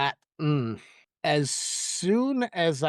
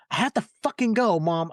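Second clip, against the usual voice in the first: telling her off; 3 semitones higher than usual. Retold or imitated. Daughter cutting short her mom's call, mildly snapping in retelling. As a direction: brush her off with a touch of temper. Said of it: "and tells her off".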